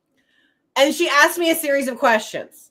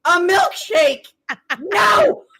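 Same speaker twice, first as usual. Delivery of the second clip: high, emphatic, exasperated retort; mock outrage, pitched up; 6 semitones higher, 3 dB louder, much slower than usual. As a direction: drag it out, then a high, indignant no. Exasperated retort to husband chewing milkshake.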